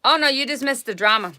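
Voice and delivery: eager announcement to Kevin of missed drama; excited exclaim. Real, not acted. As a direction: blurt it out to the newcomer. Greeting a viewer with news.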